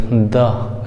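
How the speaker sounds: द like the th of "the"; voiced th sound. Shown as a demonstration. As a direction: say द with the tongue on the teeth, voiced. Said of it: "ये हमारा द का sound देगा".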